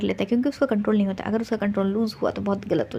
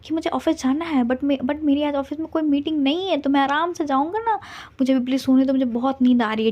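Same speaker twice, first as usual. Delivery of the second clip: angry; 4 semitones higher than usual. Acted. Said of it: "बोलता है गुस्से में".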